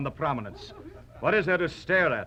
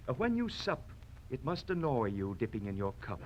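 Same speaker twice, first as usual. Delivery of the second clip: softer, chummy concern; friendly; 5 semitones lower, 8 dB quieter than usual. Acted. Swordsman plays a friendly insult, soft and cosy. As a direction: say it gently, like a kind pal. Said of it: "Or friendly".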